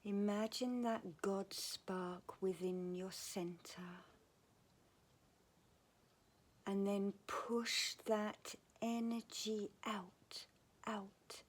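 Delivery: unhurried meditation voice with long pauses; guided meditation. Real, not acted. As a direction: guide them gently into calm, phrase by phrase.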